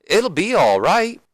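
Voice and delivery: high, drawn-out soothing; Deborah. Acted. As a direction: comfort him in a swooping high voice. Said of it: "And then Deborah's like".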